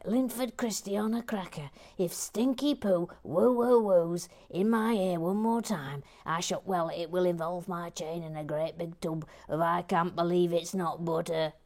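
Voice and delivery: hammed-up exasperated rant; mock irritation. Host reading an irritated viewer's comment, mock-angry rant. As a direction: rant it like a fed-up complainer.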